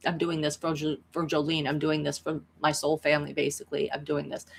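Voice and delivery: low, subdued acted determination; quiet resolve. Boy about to avenge his friend, quiet low resolve. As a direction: say it softly and low, as a settled vow. Hero's resolve before the killing blow.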